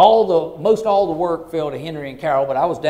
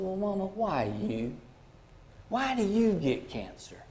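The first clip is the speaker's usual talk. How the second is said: pleading softly; 5 semitones higher, 8 dB quieter, slower than usual. Retold or imitated. Crying son questions dying mother.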